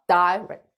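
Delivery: "direct" with a long "dai" start; long I sound. Shown as a demonstration. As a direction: stretch "direct" as "dai-rect". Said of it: "롱 사운드가 나서".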